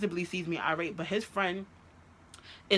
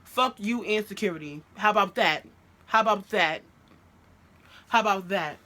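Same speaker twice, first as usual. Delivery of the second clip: punchy, louder in bursts; retold defiant cursing; 3 semitones higher, 4 dB louder than usual. Girlfriend cursing out boyfriend and his family, defiant. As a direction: hammer each defiant jab at him.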